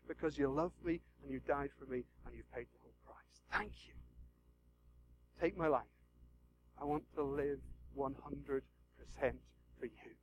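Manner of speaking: soft, low, prayerful; quiet prayer. Real, not acted. Preacher closing in prayer, hushed. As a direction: pray it softly.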